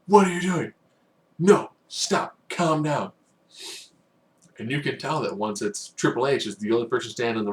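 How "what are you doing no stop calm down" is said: high, loud startled shouting; mock alarmed yell. Triple H stopping Reigns, shouting in alarm. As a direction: yell at him to stop, alarmed. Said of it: "Triple H comes down, like".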